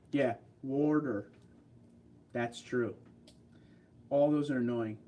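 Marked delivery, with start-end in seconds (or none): 0.6-1.3 "warder" for water, drawn out with r; regional "warder". Shown as a demonstration. Agreeing on an annoying pronunciation, slow "warder" for water. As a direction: slowly say "warder" with an r in the first syllable. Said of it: "That Boston accent".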